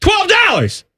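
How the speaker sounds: high, excited through a mouthful of cake; mouth full. Retold or imitated. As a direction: shout it with cheeks stuffed full. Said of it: "I say with my mouth full of cake".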